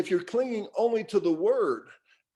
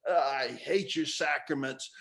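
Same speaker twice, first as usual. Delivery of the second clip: low, quieter tired grumble; weary God; 4 semitones lower, 4 dB quieter than usual. Retold or imitated. God sighing at worshippers, low and weary. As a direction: let God sound fed up. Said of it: "it's like".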